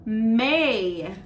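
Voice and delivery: put-on slow clear May for kids to repeat; clear model word. Shown as a demonstration. Teacher models the month name, clear and slow. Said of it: "Can you say".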